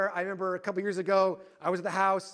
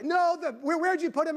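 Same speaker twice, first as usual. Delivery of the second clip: high, loud exasperated mock shout; yelling; 11 semitones higher, 7 dB louder than usual. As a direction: act out hollering a demand through the house. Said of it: "And I'm yelling".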